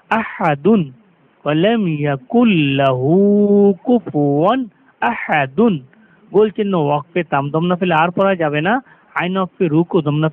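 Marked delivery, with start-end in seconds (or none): 0.1-5.7 slow recitation. Shown as a demonstration. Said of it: "recitation demo".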